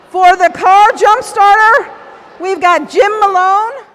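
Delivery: muffled voice through a dive mask; speaking through a full face mask. Real, not acted. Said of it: "Can you hear me through the mask?".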